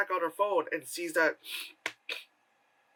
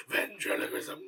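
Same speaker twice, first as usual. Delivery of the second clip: laughing; 5 semitones lower, 3 dB quieter than usual. Real, not acted. Repeats word laughing.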